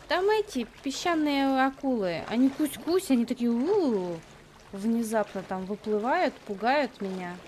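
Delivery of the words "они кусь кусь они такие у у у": cutesy mock-scary shark sounds; playful baby talk. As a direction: play it like scaring a child. Imitating biting sharks. (сюсюкающий игривый голос)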